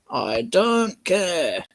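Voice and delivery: slow, dismissive I don't care; mock uncaring. Editor shrugging off sad news, slow dismissive. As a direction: drag it out with mock indifference. Mock callous reply, slowed.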